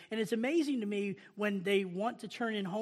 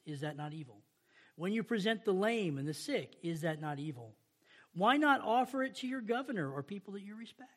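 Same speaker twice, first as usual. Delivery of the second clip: measured, solemn Bible reading; scripture reading. Acted. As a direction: read the prophet's words with gravity. Reads Malachi scripture aloud.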